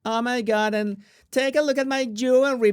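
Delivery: high-pitched mock Valley Girl; Valley Girl accent. Host imitating Megan showing off jewelry, Valley Girl accent. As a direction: put on a showy Valley Girl voice. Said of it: "Valley Girl accent from the South Park episode".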